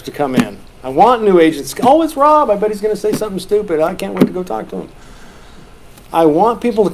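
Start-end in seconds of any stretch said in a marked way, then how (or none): 1.8-4.9 teasing agent voice. Retold or imitated. Voicing new agents teasing.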